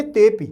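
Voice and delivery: तेपि as one word, the a swallowed; तेपि with the avagraha a unheard; joined reading. Shown as a demonstration. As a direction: say तेपि smoothly, te running into pi. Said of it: "कैसे पढ़ेंगे".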